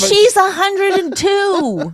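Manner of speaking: a laughing mock answer to the husband; laughing retort. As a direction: deliver the punchline through laughter. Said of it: "You're like".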